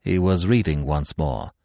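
ordinary delivery, nothing marked

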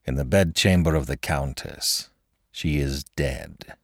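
low, soft and slowed, dead calm; calm reply. Acted. Man telling the girl the Countess died, calmly. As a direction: deliver the news with eerie composure. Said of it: "was the calm reply".

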